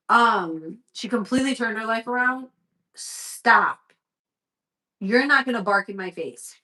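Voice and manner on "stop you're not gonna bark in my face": firm scolding. Real, not acted. Scolding barking dog.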